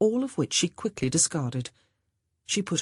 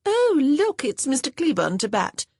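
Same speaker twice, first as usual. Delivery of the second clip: excited; 10 semitones higher, 5 dB louder than usual. Acted. Monica spots her favoured suitor.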